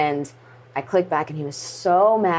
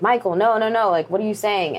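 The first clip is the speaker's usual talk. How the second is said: mildly panicked, higher-pitched protest; raised, urgent disbelief, retold; upset mom, retold; 4 semitones higher than usual. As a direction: imitate a distraught wife, held back. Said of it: "getting really upset and really hysterical".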